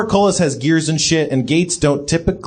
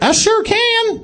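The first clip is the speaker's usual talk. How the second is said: put-on robot baby voice; slower than usual.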